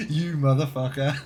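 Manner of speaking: mock outrage while cracking up; affectionate laughing curse at a friend; laughing insult. Real, not acted. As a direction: swear through laughter.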